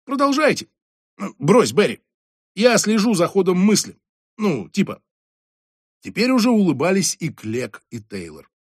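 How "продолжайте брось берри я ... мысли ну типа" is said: condescending coaxing tone; patronizing. A narrator's reading. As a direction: humour the boss from above. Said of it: "получилось немножко покровительственно". (покровительственно)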